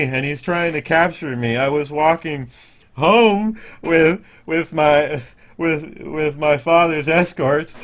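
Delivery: put-on high, loud, stammering lost boy; frightened child voice. Game master voices the boy telling the party who chases him, high and scared. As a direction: stumble through it like a scared kid. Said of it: "still holding his knees".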